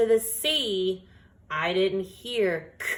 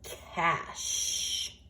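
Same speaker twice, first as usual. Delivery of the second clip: whispered word; 4 dB quieter than usual. Shown as a demonstration. Teacher whispers the new word before sounding it out. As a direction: whisper cash softly. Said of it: "Let's make the word".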